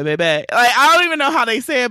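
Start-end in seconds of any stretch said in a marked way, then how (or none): 0.0-0.2 put-on "Baby" in a New Orleans accent. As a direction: imitate New Orleans locals saying "Baby". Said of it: "They be like".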